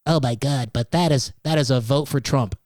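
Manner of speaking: lightly voiced mock panic of a worried voter; a hint of a panicky voter gasping at a wasted vote; mock panicked voter. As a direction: parody the fearful critic, a touch hammed-up. Mocking panicked third-party critics.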